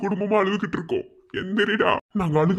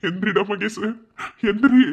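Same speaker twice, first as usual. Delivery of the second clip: sharp raised plea to wake up; pleading cry. Acted. Begging unconscious brother to wake. (உரத்த கெஞ்சல்)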